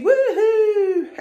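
high, laughing woohoo; excited cheer. Real, not acted. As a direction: cheer for a small win. Mini victory cheer.

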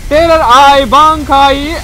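loud, drawn-out move names; attack call. Pretend. Gamer calling special moves in a fight, loud cry. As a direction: call each name out like a battle cry.

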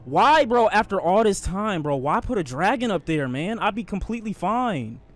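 pleading complaint starting high and loud; exasperated whine. Real, not acted. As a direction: whine at the unfairness of it. Complaining about dragon placement.

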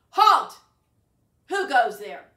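a sudden troll roar from under the bridge; troll shout. Acted. Troll shouts at big goat.

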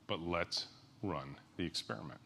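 gently defuse the objection; quiet reassurance to a sceptical coworker; calm and reassuring. Shown as a demonstration. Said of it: "Look 'em in the eye and say".

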